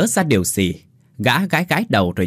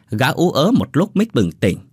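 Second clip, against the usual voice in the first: ordinary delivery, nothing marked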